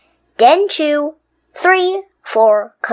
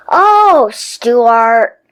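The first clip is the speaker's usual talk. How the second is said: disappointed; 5 dB louder than usual. Acted. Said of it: "cried a disappointed mother and dad".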